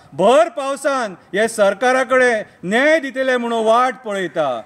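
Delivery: declaimed protest poem, falling line endings; poem recitation. Acted. Poet pleading to God for protesting taxi drivers, poem recitation. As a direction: recite it as an impassioned plea, line by line.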